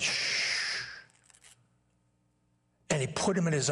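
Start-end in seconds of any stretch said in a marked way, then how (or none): 0.0-0.7 calm the son with a gentle shh; hush. Acted. Father hushing his returning son's speech. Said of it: "the father says".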